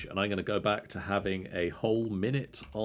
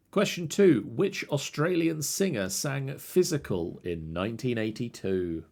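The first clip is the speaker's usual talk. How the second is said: higher and louder, booming; loud quizmaster announcement; 4 semitones higher, 4 dB louder than usual. Shown as a demonstration. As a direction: announce it like a game show host. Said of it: "quizmaster rereads question number".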